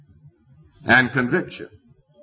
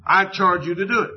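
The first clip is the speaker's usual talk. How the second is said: put-on higher, urgent old leader commanding; Joshua's charge; 8 semitones higher than usual. Old Joshua charging the gathered people, higher and insistent. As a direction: press the order on them like an aged leader. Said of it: "He says to them".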